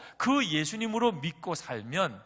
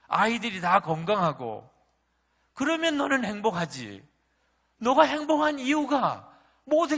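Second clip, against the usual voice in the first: a raised, searching rebuke, higher and louder; God's voice; 4 semitones higher, 5 dB louder than usual. Retold or imitated. God questioning the complaining pastor, raised stern rebuke. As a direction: press each question home like a stern father.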